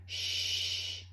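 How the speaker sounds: soft unvoiced shush; whispered. A narrator's reading. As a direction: hush them like a hen. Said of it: "Dot whispered".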